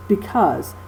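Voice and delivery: because, unaccented first syllable then accented -CAUSE; stress on second syllable. Shown as a demonstration. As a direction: let be- pass lightly, land on -CAUSE in because. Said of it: "the second syllable is accented".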